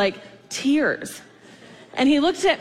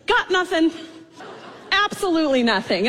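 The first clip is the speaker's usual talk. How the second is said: laughing; 4 semitones higher than usual. Retold or imitated. Kid reporting daily, with laughter.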